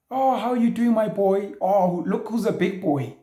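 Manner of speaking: hammed-up baby talk to a son; TV parent. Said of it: "You're acting what you see on T V".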